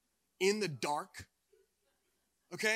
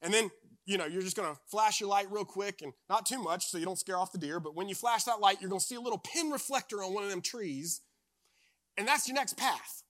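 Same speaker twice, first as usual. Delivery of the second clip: a hint of a deep Southern accent, a bit louder; 3 semitones higher, 5 dB louder than usual. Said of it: "he had, like, a deep Southern accent".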